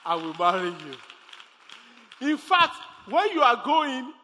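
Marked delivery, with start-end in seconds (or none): 0.1-2.3 slow, deliberate promise. Retold or imitated. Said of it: "I said".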